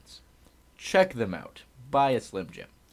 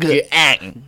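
emphatic shout; 5 semitones higher, 13 dB louder than usual. Acted. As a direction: punch out one loud high word. Chanting their gang name back.

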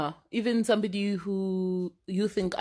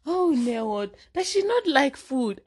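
higher, lightly mock-shocked auntie; nosy relatives; 5 semitones higher than usual. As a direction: mimic a nosy relative's fuss. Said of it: "they like to say".

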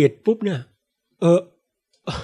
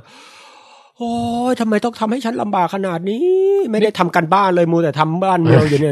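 weary king; 2 semitones higher than usual. Retold or imitated. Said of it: "ได้รับความเหน็ดเหนื่อยอย่างมาก".

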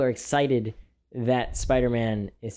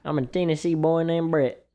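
put-on Southern accent; 3 semitones higher than usual. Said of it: "when they're doing them Southern accents".

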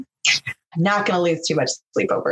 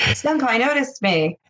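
excited anime fan; 8 semitones higher than usual. Acted. Fan joke echo.

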